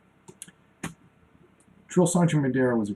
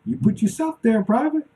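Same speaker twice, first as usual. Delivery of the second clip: much higher, calm sergeant delivering a verdict; drill sergeant; 11 semitones higher, 5 dB louder than usual. Retold or imitated. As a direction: coolly tell the recruit it's his own fault. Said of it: "He was just like".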